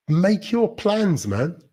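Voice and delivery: slow, high, emphatic plea; really mean it, drawing the words out high; earnest urging. Real, not acted. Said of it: "I really mean that".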